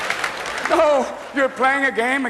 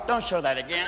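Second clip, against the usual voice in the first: softer wincing plea; pained mutter; 4 semitones lower, 6 dB quieter than usual. Retold or imitated. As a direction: beg them to stop, hurting. Men at home wincing.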